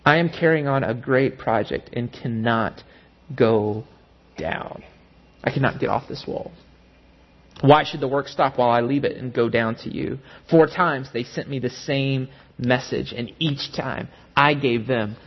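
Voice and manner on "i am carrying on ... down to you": firm reply. Acted. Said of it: "Listen to what he says".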